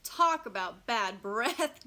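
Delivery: mock-giggly schoolkid. A narrator's reading. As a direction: crack the joke with a giggle. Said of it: "giggles Eric Portman".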